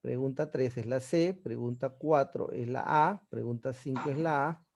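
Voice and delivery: slow, clear dictation of answers; teacher dictating the answers to the class. Shown as a demonstration. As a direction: read the answers out slowly.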